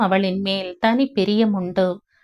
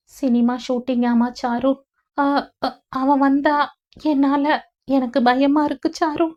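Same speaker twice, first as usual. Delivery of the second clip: higher, halting fearful voice; frightened; 5 semitones higher than usual. Acted. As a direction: stammer out her fear. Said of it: "அவள் மனதில் இருந்த பயம் ... குரலின் நடுக்கத்திலும்". (பயத்தில் தடுமாறும் உயர்ந்த குரல்)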